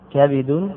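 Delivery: "كبد" as kabidun, a then i; "كبد" opened out as ka-bi-dun; full form, kabid. Shown as a demonstration. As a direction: say "كبد" with fatha, then kasra on the ba. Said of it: "بفتح الفاء وكسر الباء".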